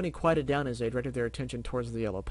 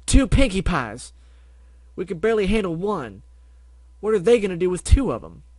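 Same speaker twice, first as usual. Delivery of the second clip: panicked outcry; 6 semitones higher, 10 dB louder than usual. Acted. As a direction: wail at the disaster. Ponies panic about two Pinkies.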